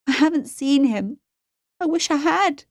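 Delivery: high-pitched, distressed protest; anguished cry. A narrator's reading. Captive girl insists she hasn't seen him, anguished cry. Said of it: "cried Juniper".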